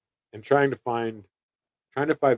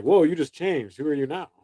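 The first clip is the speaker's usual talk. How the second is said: higher, surprised customer voice; startled customer; 6 semitones higher, 4 dB louder than usual. Retold or imitated. Customer reacting to the sudden shift, surprised and higher. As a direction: act the customer taken aback. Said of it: "they are like".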